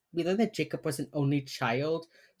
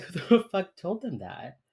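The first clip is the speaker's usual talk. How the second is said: angry quote, laughing; 4 semitones higher than usual. Retold or imitated. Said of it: "J J mad".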